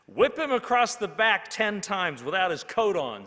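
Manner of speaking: a student shouts a harsh punishment; shouted. A narrator's reading. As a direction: bellow the harsh penalty. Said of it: "someone shouted".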